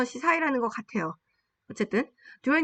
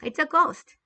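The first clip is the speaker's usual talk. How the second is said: mock frightened cry; 6 semitones higher, 4 dB louder, much slower than usual. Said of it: "They said and cried out".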